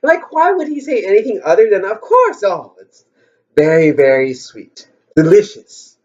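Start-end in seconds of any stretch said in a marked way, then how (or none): 1.8-6.0 a hint of a Lao accent, not very well done; imperfect Lao accent. Durian seller assuring a buyer, imitated in a light Lao accent. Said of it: "I can't do the Lao accent very well".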